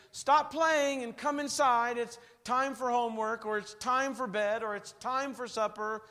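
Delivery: a mild mock parent summoning; parent calling. Mom calling children in from play, mild mock call.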